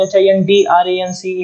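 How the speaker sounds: letters dictated slowly one by one; slow spelling out. Shown as a demonstration. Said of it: "हिंड्रेंस यहाँ पे लिख देता हूँ". (धीरे-धीरे स्पेलिंग लिखवाना)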